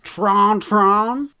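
baffled, drawn-up question; incredulous echo. Real, not acted. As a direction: repeat it as if it cannot be true. Repeats the pronunciation in disbelief.

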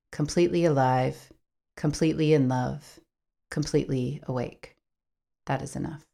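calm, measured closing reading; reflective reading. Acted. S1 reads a closing reflection to listeners, calm and measured. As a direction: read it like a gentle outro reflection.

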